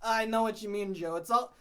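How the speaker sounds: put-on voice of a cop partner; changed cop voice. Cop agreeing with Joe about body cams, changed voice. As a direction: slip into a different character voice. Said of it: "Wow, your voice changed".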